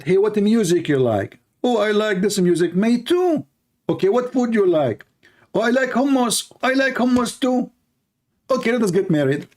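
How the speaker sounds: high, sing-song mock dialogue between lovers; mock couple chat. Speaker mocking a shallow dating couple, high and silly.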